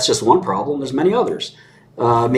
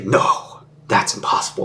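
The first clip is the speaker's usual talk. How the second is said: mock disbelief; 7 semitones lower than usual.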